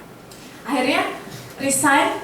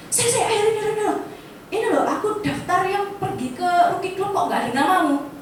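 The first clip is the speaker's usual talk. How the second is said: panicked Roy; 5 semitones higher than usual. Retold or imitated. Roy panics, name missing from list.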